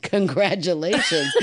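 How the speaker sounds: imitating mom congratulating the father, laughing; laughing mock congrats. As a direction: say it with a knowing wink. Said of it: "she's like".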